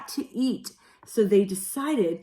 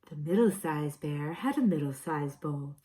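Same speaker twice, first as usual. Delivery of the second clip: silly middle bear voice; 5 semitones lower, 6 dB quieter than usual. Acted. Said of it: "in a silly voice".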